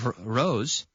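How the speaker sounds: rose said with the same sound as rosa, the flower; teacher modelling the sound of rose. Shown as a demonstration. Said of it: "just like rosa, the flower".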